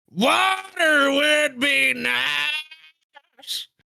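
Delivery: very high, very slow, squeaky, creaky, stretched-out cartoon voice. Acting out a skit where Arthur answers John, SpongeBob voice. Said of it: "impression of Atta Morgan doing an impression of SpongeBob".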